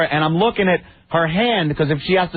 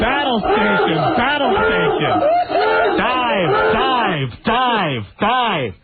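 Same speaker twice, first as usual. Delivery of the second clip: mock alarm call; 6 semitones higher, slower than usual. Joking about the girlfriend, a mock dive alarm. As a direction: shout it like a submarine klaxon call.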